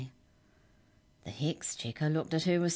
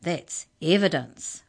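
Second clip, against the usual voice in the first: louder, slow retort; cried out; 6 dB louder, slower than usual. Acted. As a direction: fire it back, louder and slower. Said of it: "cried the hex checker".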